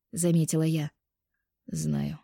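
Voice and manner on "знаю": low, soft, indifferent. A narrator's reading. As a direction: shrug it off. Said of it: "равнодушно сказал он". (равнодушно, низко и тихо)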